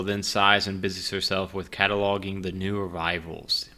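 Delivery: normal talking voice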